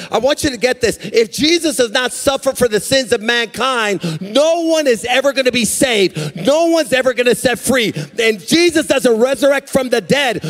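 driving, repetitive sermon cadence; full-force preaching. Real, not acted. Preacher tells why Jesus must suffer, full-force preaching. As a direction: pound out each phrase like a preacher.

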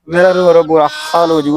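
hammed-up weepy whine; mock tearful. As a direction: whimper it like a grieving owner. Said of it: "ਤੂੰ ਰੋ ਨਾ". (ਨਾਟਕੀ ਰੋਣਹਾਕੀ ਆਵਾਜ਼ ਵਿੱਚ)

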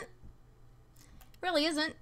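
weary slow murmur; slow, quiet drawn-out repeat. Real, not acted. Repeating her complaint to chat.

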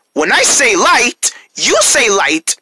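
put-on slow, sing-song instructions to kids; kindergarten teacher voice. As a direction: lead the little ones, slow and clear. Leading kids call and response.

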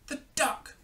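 high-pitched crook's voice; put-on voice of a storybook thief; thief Hugh. A narrator's reading. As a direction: pipe up on spotting a landmark. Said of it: "said Hugh".

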